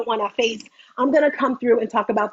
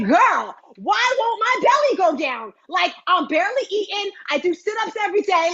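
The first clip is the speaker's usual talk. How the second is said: higher, pleading frustrated woman; complaining client; 6 semitones higher than usual. Acted. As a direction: whine it like a fed-up client. Acting a frustrated client's question.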